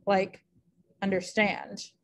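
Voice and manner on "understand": "understand" with two light syllables, then a stressed STAND; un-der-STAND, landing on the last syllable; anapestic stress. Shown as a demonstration. Teacher illustrating an anapest, "understand" stressed on STAND. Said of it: "unstressed, str-, unstressed, stressed".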